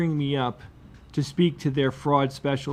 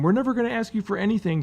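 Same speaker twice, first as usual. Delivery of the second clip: scammer reassurance; 6 semitones higher, faster than usual. Retold or imitated. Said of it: "when they pivot from".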